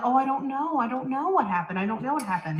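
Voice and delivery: playing dumb, lightly voiced; mock clueless mother; innocent act. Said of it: "play the".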